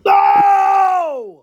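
high, loud disbelieving no; a real gasping no; shocked shout. Real, not acted. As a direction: blurt it out in horror. Reacting in disbelief.

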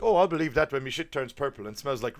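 hammed-up skeptical captain; mock gruff captain. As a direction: scoff like a disbelieving boss. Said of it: "He's like".

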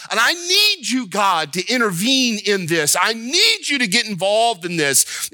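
urgent plea, NEED lifted high; pleading with God. Acted. Believer asking God to step in, urgent pleading. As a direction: plead earnestly, leaning on "need".

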